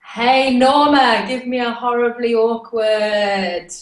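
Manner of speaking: show intro call. Shown as a demonstration. Guest repeating the host's intro line, drawn-out call. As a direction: copy the host's stretched-out cue.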